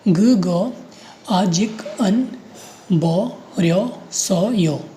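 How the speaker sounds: ग, ग, आजिक, अन, बो, रियो, सो, यो in separate pieces; syllable by syllable. Shown as a demonstration. Teacher reading out the last row, piece by piece with pauses. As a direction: sound out ग, ग, आजिक, अन, बो, रियो, सो, यो with short gaps. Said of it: "रो में पढ़िए".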